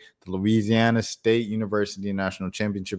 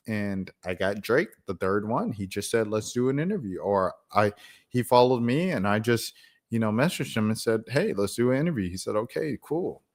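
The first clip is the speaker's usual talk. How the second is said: Bobby; 2 semitones higher than usual. Retold or imitated. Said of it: "She's like".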